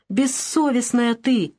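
медленно, выше, с надрывом; выдохнуть упрёк в сердцах; задыхаясь кричит. Acted. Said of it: "задыхаясь, кричала Марфа". (мать задыхаясь кричит на дочь)

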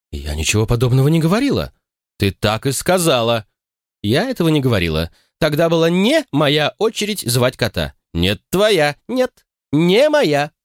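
put-on quarrel like old sisters; escalating squabble. A narrator's reading. (перебранка сестёр, нарастающая до визга)

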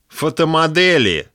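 high drawled word; drawn-out old man. Acted. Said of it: "протянул дед".

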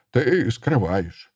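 slow, grating accusation; creaky voice. Acted. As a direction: drag it out suspiciously. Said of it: "сказал он скрипучим голосом". (медленно, скрипучим голосом)

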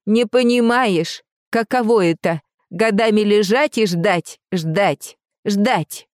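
put-on old woman crying out her grievance; ringing old voice. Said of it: "старческий голос зазвенел".

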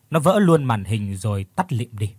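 ordinary delivery

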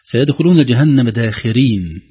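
داخرين with a clear ra; recited verse, clear ra. Shown as a demonstration. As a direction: say داخرين with a distinct ra, not lam. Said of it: "بالراء".

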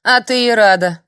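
loud, high snapping retort; snapped. A narrator's reading. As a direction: bite back at the old woman. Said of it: "огрызнулась Бьерга".

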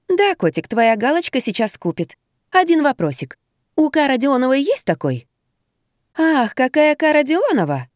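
high, sugary phone voice; chirping sweetly. A narrator's reading. A woman coos at her young lover on the phone. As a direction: coo into the phone with menace. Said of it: "зачирикала в трубку".

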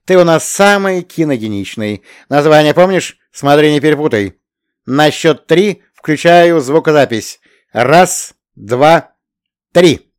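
loud. A narrator's reading. Birsky counts in filming.

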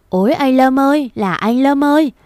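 aunt's final wail at the coffin; high wailing cry. Acted. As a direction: pitch the cry for "anh Lâm ơi" up high. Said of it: "là khóc".

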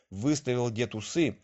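plain reading voice

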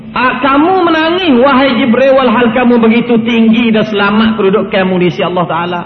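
retold astonishment. The Prophet asks weeping Jibril why he cries, astonished. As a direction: voice the Prophet's puzzlement, starting high. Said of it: "Jadi heran Nabi".

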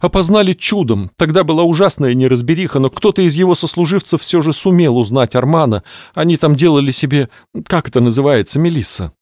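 high, plaintive widow-to-be; grieving lady voice. Acted. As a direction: lament it like a theatrical mourner. Clarissa mourning fiancé. (скорбящая дама)

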